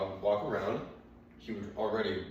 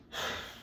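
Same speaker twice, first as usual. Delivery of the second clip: dad's sigh; 6 dB quieter than usual. Retold or imitated. Dad realises the dog is gone.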